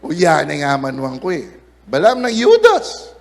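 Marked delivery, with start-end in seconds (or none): 0.0-1.5 put-on Kapampangan accent. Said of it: "Kapampangan niya eh".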